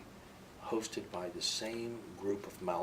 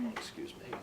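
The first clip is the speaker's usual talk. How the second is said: mock-polite scoff; sarcastic excuse me, pitched higher; 14 semitones higher, 3 dB quieter than usual. Mocking demonstrators with a scoff.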